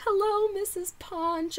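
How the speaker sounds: high, slow, soft singsong; starstruck greeting. Retold or imitated. Fan greeting the host's wife, high starstruck singsong. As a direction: draw it out high and sweet.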